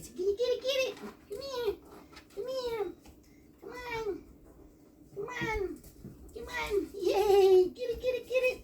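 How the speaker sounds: high, bright-pitched praise for the dog; excited puppy talk. Real, not acted. Playing with puppy, coaxing.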